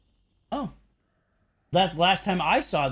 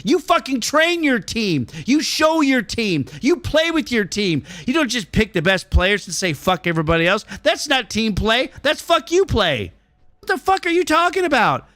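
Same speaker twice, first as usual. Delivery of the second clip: pitched way up, cursing in disbelief; real exasperated rant; heated rant; 7 semitones higher than usual. Real, not acted. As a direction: rant at chat like they said something absurd. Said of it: "the old man dropping the F-bomb".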